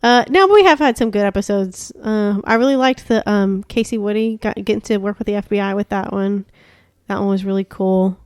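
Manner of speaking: chewing while talking; crunching chips. Real, not acted. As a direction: talk through a mouthful. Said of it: "sorry about the crunching".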